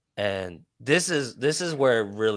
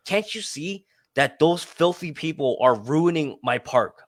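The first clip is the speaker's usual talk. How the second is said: higher-pitched mock indignation; imitated enraged man; 5 semitones higher than usual. Man complaining to park worker, mock enraged. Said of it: "came up to me enraged".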